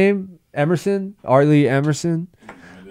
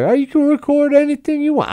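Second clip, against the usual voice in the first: Southern Midwest guy. Pretend. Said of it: "talking like this Southern Midwest guy".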